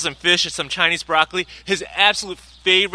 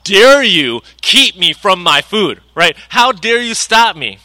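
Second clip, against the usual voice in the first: slow, louder mock outrage; hammed-up son, offended at being kept from dinner; indignant son; 6 dB louder than usual. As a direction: roll your eyes, offended at being kept from food. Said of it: "He rolled his eyes at me like".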